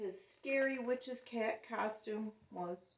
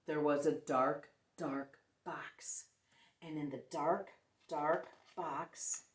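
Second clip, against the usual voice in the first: lower, hushed spooky storytelling; ghost story voice; 4 semitones lower, 4 dB louder, slower than usual. Acted. Teacher telling the class a ghost story, spooky hush. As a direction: draw the class into the dark slowly. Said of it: "whispered in her best ghost story voice".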